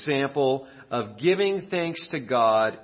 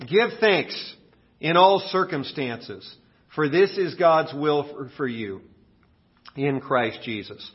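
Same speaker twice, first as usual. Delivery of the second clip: congregation recitation. Shown as a demonstration. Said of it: "Say that with me".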